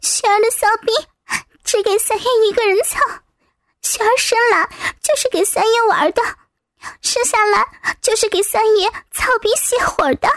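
high, pressured pleading delivery; distressed recitation. Acted. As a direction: recite it as if forced. Coerced character forced to repeat submission.

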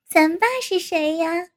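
chuckle, then tease; a short laugh leading into the question; lightly amused retort. Acted. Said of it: "阿颖笑道".

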